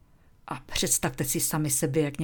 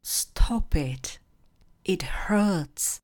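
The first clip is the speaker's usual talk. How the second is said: whispered, hurt plea to stop; a whispered ouch, stop it; pained protest; 3 semitones higher, much slower than usual. Shown as a demonstration. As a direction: whisper it as if being pinched. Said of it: "někdo vás třeba štípe, a zareagujte".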